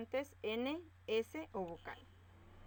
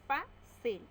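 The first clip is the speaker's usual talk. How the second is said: Fácil called out higher and louder; announced example word; 5 semitones higher, 6 dB louder than usual. Shown as a demonstration. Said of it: "Separamos en sílaba". (anuncia Fácil más alto y fuerte)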